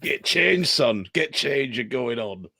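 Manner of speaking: mock Northern Irish manager, voice dropping at the end; attempted Northern Irish accent. Manager sending a young substitute on, mock Northern Irish accent. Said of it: "He's never been Northern Irish".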